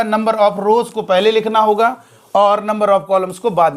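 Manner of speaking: rows stressed, slow deliberate dictation; slow stressed rule. Shown as a demonstration. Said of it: "तो क्या होगा".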